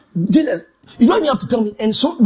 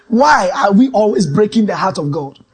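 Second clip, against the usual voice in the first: slow, loud preacher's question; slow preaching; 3 dB louder than usual. Retold or imitated. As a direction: preach it slowly to the crowd. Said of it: "I say".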